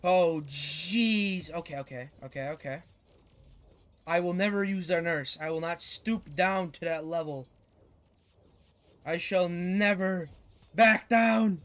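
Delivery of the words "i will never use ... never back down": lightly voiced heroic anime protagonist; a hint of a dramatic anime hero vow; overacted anime dub. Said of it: "I'm talking like I'm some freaking anime character".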